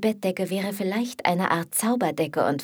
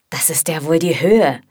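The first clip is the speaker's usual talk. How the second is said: scolding; 7 dB louder than usual. Acted. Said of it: "schimpft er dann".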